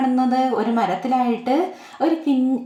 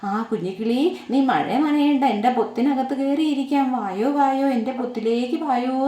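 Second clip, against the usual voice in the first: inviting parrot. Acted. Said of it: "എന്ന് തത്തമ്മ പറയുവാണ്".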